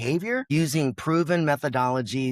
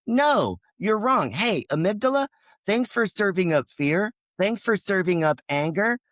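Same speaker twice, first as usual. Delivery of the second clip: higher inner voice; 4 semitones higher than usual. Retold or imitated. The higher self answers the fearful amygdala, higher and firm. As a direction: talk back to your own fear like a confident coach. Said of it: "a higher voice that can always tell that lower voice".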